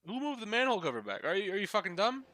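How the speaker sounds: loud, high angry yell. Real, not acted. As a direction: yell at the screen in frustration. Yelling at game.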